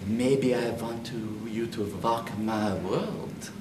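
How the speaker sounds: put-on lightly kept Transylvanian accent, V for W, slow finish. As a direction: keep the playful Transylvanian vampire accent going. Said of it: "Keeping the accent".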